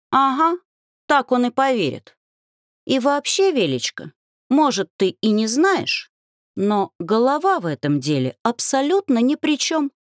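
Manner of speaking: mildly huffy lecturing; scoffing. A narrator's reading. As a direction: scoff at his naive advice. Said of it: "фыркнула подруга".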